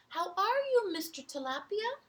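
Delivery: high, loud hello; high cheerful greeting. Acted. Seahorse greeting tilapia, high and loud.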